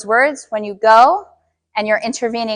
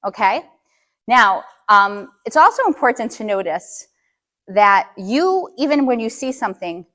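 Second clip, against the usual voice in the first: ordinary delivery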